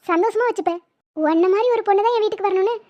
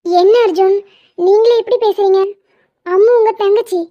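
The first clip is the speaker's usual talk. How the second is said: loud protest; 4 dB louder than usual. Acted. Protesting his suggestion.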